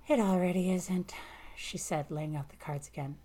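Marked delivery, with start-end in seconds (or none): 0.1-1.1 weary whisper. A narrator's reading. Weary reply over cards.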